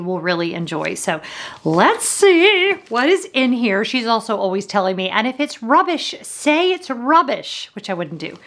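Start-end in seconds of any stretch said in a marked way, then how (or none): 5.1-7.7 loose mock British lilt, slowing down on say it's rubbish; a half-hearted English accent for a friend; lightly imitating Karen's British accent; bad Karen accent. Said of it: "probably a bad Karen accent".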